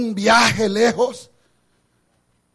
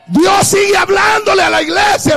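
emphatic repeat; 5 semitones higher than usual. Shown as a demonstration. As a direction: hammer the line home the second time.

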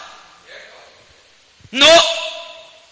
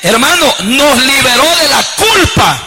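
emphatic sermon proclamation; fervent preaching; 3 semitones higher than usual. Real, not acted. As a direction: declare it from the pulpit, building to a stretched climax. Preaches at full force.

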